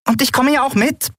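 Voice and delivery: very high, tiny piping voice. A narrator's reading. Little Nelen chimes in, very high piping. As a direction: squeak it like a small creature. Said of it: "piepste Nelen".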